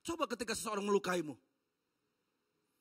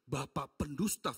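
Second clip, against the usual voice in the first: slow emphatic; 7 semitones lower, slower than usual. Real, not acted.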